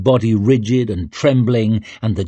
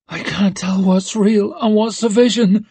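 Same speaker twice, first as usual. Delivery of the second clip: put-on high feverish girl voice; 10 semitones higher than usual. Rika delirious in pain.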